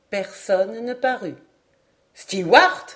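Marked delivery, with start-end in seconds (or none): 2.1-2.9 loud call with a rising end; louder call. A narrator's reading. Stranger repeating his hail to the steward, louder call. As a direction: call out loudly, lifting the last syllable. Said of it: "répéta-t-il d'une voix plus forte".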